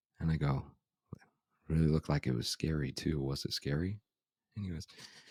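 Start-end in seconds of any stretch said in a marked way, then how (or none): none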